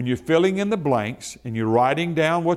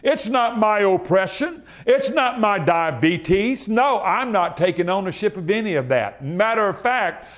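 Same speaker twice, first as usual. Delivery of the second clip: rising, fervent declaration; got excited; 5 semitones higher than usual. Real, not acted. Pastor disowning sickness before the church, rising excitement. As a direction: build the fire line by line. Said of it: "I got excited just then".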